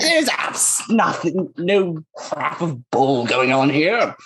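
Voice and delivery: slow, careful pompous wording; trying to sound intelligent. Acted. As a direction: weigh each word to sound smart. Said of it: "Trying to sound intelligent".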